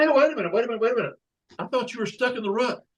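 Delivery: high squeaky voice, startled; high surprised frog. Acted. Frog in the joke calls after the one hopping past, high and startled.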